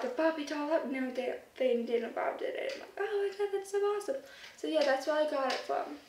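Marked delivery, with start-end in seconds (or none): 3.0-4.2 higher-pitched mock awe; acted, mildly excited reaction; imitated admiration. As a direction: gush lightly in a raised voice.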